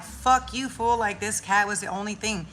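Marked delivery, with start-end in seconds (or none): 0.0-1.0 mock angry retort. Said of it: "I'm like".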